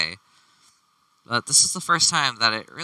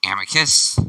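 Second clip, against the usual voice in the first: put-on first try at a snobby rich kid; a half-formed snobby call; rejected snobby voice; 3 dB louder than usual. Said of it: "No, that doesn't sound right either".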